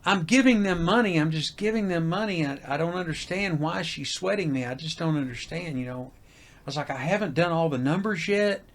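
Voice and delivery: spilling over with stress; agitated rant to wife; worked-up rant. Retold or imitated. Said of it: "I told my wife".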